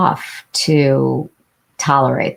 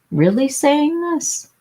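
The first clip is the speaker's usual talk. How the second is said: disbelief; 10 semitones higher than usual. Real, not acted. Incredulous repeat.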